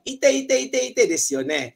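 quick repeated ow; mock pain cry. Shown as a demonstration. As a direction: yelp it fast. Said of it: "kalau sakit".

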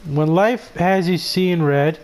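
slow, hammed-up commercial voice; mock ad read. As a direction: sell it like a cheesy cigarette ad. Reading the in-game ad aloud.

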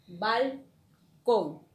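"balcón" split in two slow, strong syllables; slow teacher's "balcón", weight on the last syllable; stress on CÓN. Shown as a demonstration. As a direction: pull "balcón" apart and land on CÓN. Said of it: "Es en con".

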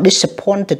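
"disappointed" slowly, ending in an id syllable; -ed as extra syllable. Shown as a demonstration. Teacher showing students the ending, "disappointed" with final /ɪd/. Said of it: "âm ịch nha các bạn".

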